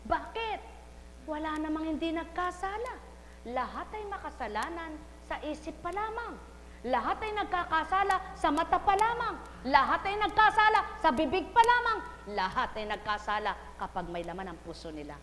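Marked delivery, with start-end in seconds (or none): 0.1-12.0 building fervour. Acted. Preacher building argument.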